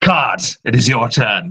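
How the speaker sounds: scary, menacing voice. Voicing a hydra that tells card his turn: scary voice.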